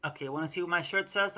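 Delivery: ordinary talk, nothing marked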